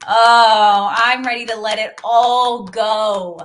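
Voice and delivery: loud, slow cry of letting go; a loud, slow release as you let go; moaning release. Real, not acted. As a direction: moan it out and surrender. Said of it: "exhale with a moan".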